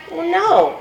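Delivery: put-on high, loud little boy's shout. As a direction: blurt it out like an excited kid. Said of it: "Casey shouted".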